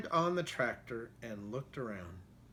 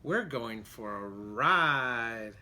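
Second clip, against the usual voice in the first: dog's thought voice; 3 semitones lower, 4 dB louder, much slower than usual. Acted. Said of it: "what he thought was".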